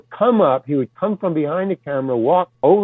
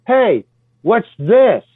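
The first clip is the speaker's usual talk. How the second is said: surprised question, slow; 5 semitones higher, 4 dB louder, much slower than usual. Retold or imitated. Surprised at spray.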